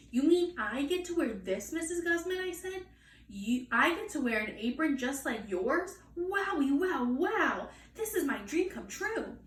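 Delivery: put-on high, gushing child delight; can't believe her luck; little girl thrilled to wear an apron.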